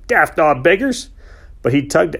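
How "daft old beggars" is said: louder, slow fond grumble; mild slow gruff scold; affectionate scolding. A narrator's reading. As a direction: scold the old horses fondly. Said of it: "he shouted".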